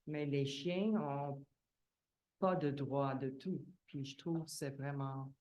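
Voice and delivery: French spoken with a foreign accent; non-native speaker's accent in French. Real, not acted. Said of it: "je m'excuse, mon français, euh, n'est pas parfait".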